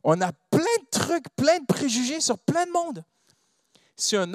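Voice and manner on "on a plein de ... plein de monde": high, emphatic pulpit delivery; impassioned preaching. Real, not acted. Preacher confronting congregation about their prejudices, impassioned. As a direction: hammer out each phrase, pitched up.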